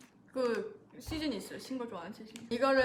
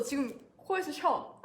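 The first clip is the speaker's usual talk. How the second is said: slow pained; 3 semitones higher, slower than usual. Real, not acted. Sour sting in the nose.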